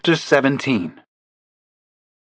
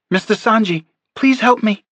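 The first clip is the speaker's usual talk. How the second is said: weak desperate call; 11 semitones higher than usual. A narrator's reading. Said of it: "she tried to call out".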